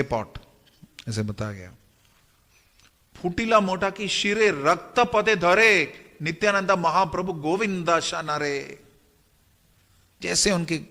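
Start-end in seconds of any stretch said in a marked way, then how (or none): 3.2-8.8 measured, lilting verse delivery; scripture verse recitation. A narrator's reading. (लय में पद्य पाठ)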